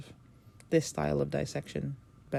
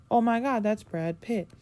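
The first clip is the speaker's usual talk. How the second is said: starstruck gasp; 6 semitones higher, 3 dB louder than usual. Retold or imitated. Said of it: "it's very hard to not go".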